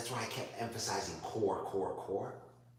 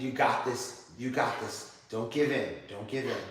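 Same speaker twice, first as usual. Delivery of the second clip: louder, pushing cheers of you got this; loud encouragement; 5 dB louder than usual. Real, not acted. Yoga teacher cheering her struggling student in plank, loud and urgent. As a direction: spur her on through the burn.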